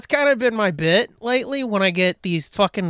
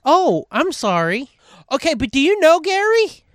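imitating caller; 8 semitones higher, 3 dB louder than usual. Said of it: "she was like".

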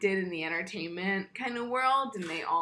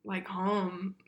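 mock upset whisper. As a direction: fake a breathless little upset. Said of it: "she's like".

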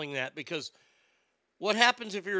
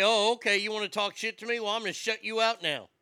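higher-pitched, cocky taunt with a loud opening; defiant comeback; 4 semitones higher, 5 dB louder than usual. Acted. Girl goalie answers the boys' trash talk, defiant. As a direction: throw the challenge right back.

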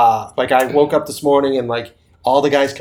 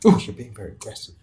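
mocking prissy voice; 4 semitones lower, 3 dB quieter, faster than usual. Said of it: "people are like".

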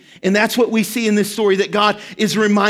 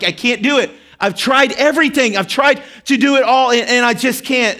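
put-on upset child; 4 semitones higher than usual. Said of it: "And he's like".

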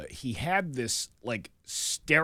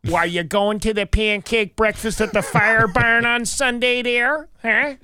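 loud, high Great Lakes caricature; upstate New York accent; 7 semitones higher, 6 dB louder, slower than usual. Retold or imitated. Imitating a neighbor asking about breakfast, upstate New York accent. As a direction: put on upstate vowels, loud and raised. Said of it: "up in upstate New York".

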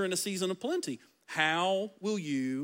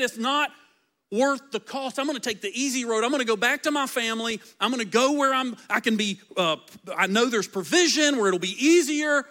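casual Orpah; 4 semitones higher than usual. Retold or imitated. Orpah voiced, quitting.

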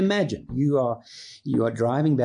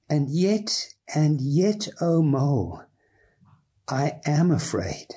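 story reading. A narrator's reading. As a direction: read it with reverent awe. Reads Wind in the Willows passage aloud.

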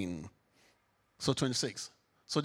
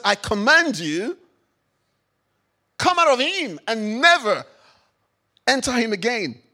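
authoritative command; 4 semitones higher, 8 dB louder than usual. Acted. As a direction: order the spirit out with full authority. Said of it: "The person who speaks like that must either have an authority".

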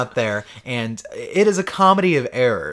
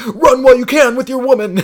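gruff hero voice; 8 semitones higher, 8 dB louder than usual. Retold or imitated. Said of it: "And he's like".

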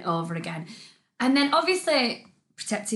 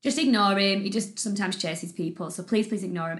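politely reassure, letting the voice settle down; calm call; 2 semitones lower than usual. Retold or imitated. Dog owner asking cyclist to ignore dog, calm. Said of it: "shouted up really calmly and just said".

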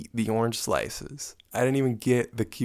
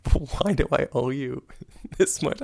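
higher and higher at the bill; incredulous; 7 semitones higher than usual. Retold or imitated. Protesting the huge bill to the waiter, rising in disbelief. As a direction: pitch shooting way up in disbelief. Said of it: "And I'm like".

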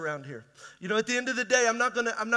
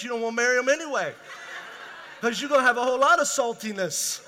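laughing through words; 2 semitones higher, 5 dB louder, faster than usual. Real, not acted. Joking, laughing.

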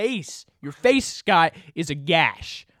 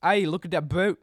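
put-on British accent.

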